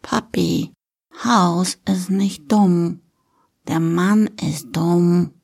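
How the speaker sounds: put-on slow, simple little-girl delivery; small child earnestly explaining, drawn out; little girl Lilly. Daughter defends House to Papi, slow childlike earnestness.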